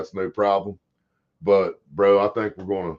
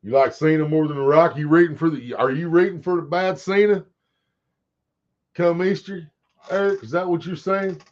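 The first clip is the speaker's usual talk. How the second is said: higher, mock-incredulous ribbing; teasing challenge; 7 semitones higher than usual. Real, not acted. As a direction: needle Eric in a raised, disbelieving voice. Teasing chatter Eric about Cena.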